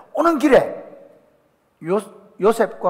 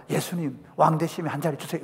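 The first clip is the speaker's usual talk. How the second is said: softer, lower sly begging; wheedling request; 3 semitones lower, 7 dB quieter than usual. Acted. Disciples to Jesus, soft sly begging. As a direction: ask for a favour sheepishly.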